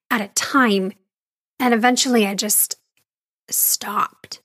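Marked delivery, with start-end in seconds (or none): 3.5-4.4 breathy whisper, barely voiced; whispered stop. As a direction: let the word die to a whisper. Whispered end of the sprint metaphor.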